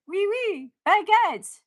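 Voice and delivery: hammed-up French clichés; mock French. Joking about Paris, mock French accent.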